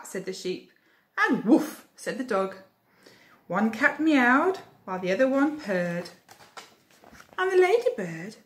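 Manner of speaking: lively storybook reading; reading to children. A narrator's reading. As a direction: read it like a bedtime story. Reading picture book aloud.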